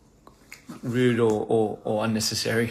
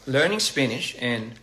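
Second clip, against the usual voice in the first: higher, bright quoted comment; reading a comment; 4 semitones higher than usual. Shown as a demonstration. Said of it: "Somebody said in the comments".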